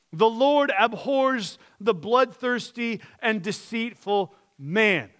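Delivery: slow, solemn declaration; scripture proclamation. Acted. Pastor reading the psalmist's praise of God, slow and solemn. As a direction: proclaim each line about God deliberately.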